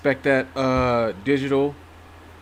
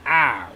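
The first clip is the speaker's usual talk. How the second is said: pained ow; 4 dB louder than usual. Real, not acted. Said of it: "See, just doing that".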